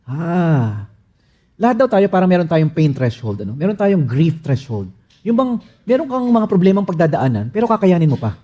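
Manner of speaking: ordinary delivery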